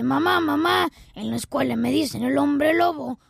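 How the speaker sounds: put-on a kid running to mom, upset; whiny child. Child complains to mother. (niño quejándose con su mamá)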